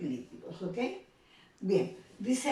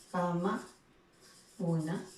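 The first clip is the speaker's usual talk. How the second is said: "cama, cuna" as two separate pieces with a pause; measured teacher's "cama... cuna"; words set apart; 2 semitones lower than usual. Shown as a demonstration. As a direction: say "cama", wait, then "cuna". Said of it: "si yo lo uno".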